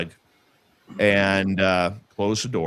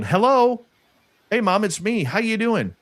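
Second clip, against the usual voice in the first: much higher-pitched, singled-out mock phone hello; acted phone greeting; 12 semitones higher, 3 dB louder than usual. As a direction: imitate a call to mom, pitched way up. Acting out phone call to mother.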